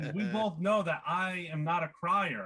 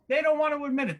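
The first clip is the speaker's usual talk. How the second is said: higher and louder, punching don't; emphatic repeat; 9 semitones higher, 4 dB louder, faster than usual. Acted. Comic to crowd, louder emphatic repeat. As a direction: hammer the repeat home.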